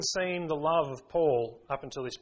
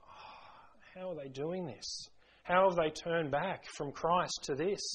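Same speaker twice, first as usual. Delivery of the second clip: hushed disbelief; 5 dB quieter, slower than usual. Retold or imitated. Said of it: "He's just like".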